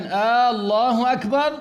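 آه، الله أكبر with a long opening آه and rising أكبر; teacher mimicking a faulty takbir; wrong drawn-out hamza. Shown as a demonstration. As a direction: drag the start so it sounds like a question. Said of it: "فلما بيقول الإنسان".

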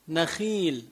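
نخيل with a thin "khii"; light خ. Shown as a demonstration. Teacher repeating the correct example, نخيل with light خ. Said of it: "بقول نخيل ترقق".

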